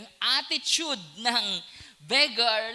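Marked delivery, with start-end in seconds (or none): none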